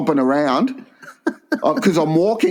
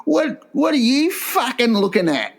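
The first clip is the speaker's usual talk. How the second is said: high mock snarl of a rough woman; mock angry woman snapping; aggressive woman; 9 semitones higher than usual. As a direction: play the woman in the wheelchair snapping at him. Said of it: "she goes".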